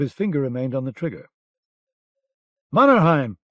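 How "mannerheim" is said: loud bawl, a touch higher; bawled name. Acted. Lieutenant bawls at his soldier to stop, loud bawl. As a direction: bellow the soldier's name across the yard. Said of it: "the lieutenant bawled".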